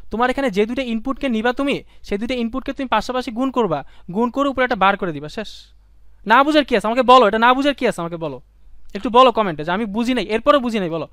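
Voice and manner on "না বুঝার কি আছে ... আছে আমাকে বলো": loud, exasperated challenge; real exasperation, louder. Real, not acted. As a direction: demand it, fed up but teasing. Teacher frustrated students don't understand.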